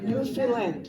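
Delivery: "Newfoundland" as NEW-fin-LAND, stress on the last part; Newfoundland pronunciation. Shown as a demonstration. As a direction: say "Newfoundland" like the friends from there do. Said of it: "Just like that".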